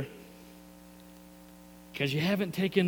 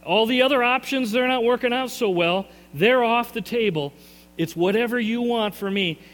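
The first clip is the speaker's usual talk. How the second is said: pleading surrender prayer; 5 semitones higher than usual. Pretend. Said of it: "you're saying".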